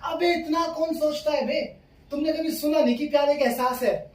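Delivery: high, strained comic indignation; exasperated outburst. Acted. Boyfriend fed up with being asked for reasons, exasperated outburst.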